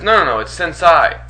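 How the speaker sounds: sensei said as sen-SIGH; retold correction, sensei rhyming with "sigh"; mispronounced sensei. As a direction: insist on sensei ending in "sigh". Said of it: "when he screws up a word".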